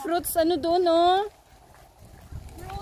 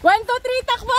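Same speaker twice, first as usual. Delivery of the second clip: excited countdown; 8 semitones higher than usual. Real, not acted. Countdown then they run.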